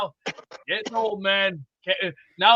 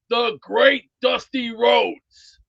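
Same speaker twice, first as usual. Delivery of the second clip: hyped announcement; 4 dB louder, much slower than usual. Real, not acted. Hyping a wrestling hero.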